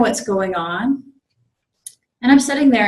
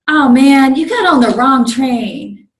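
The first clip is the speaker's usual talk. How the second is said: loud, higher scolding conductor voice; berating conductor; 5 semitones higher, 9 dB louder than usual. Retold or imitated. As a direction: chew him out like a gruff conductor. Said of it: "berating purple shirt guy".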